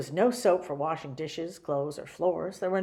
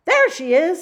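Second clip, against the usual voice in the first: shout; 11 semitones higher, 12 dB louder than usual. Acted. Manager chasing.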